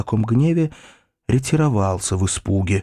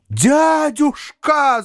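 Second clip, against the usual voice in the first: high, drawn-out joyful cry; delighted cry; 3 dB louder, much slower than usual. A narrator's reading. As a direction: call out the word in sheer delight. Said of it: "закричал я в восторге". (восторженный высокий протяжный возглас)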